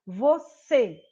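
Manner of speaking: "você" with weight on a closed cê; stressed last syllable. Shown as a demonstration. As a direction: lean on the final cê of "você". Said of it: "a sílaba mais forte é o".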